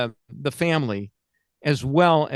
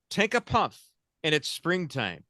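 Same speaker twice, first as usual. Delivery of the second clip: chipper 1950s ad; 4 dB quieter than usual. Retold or imitated. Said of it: "Name this cigarette".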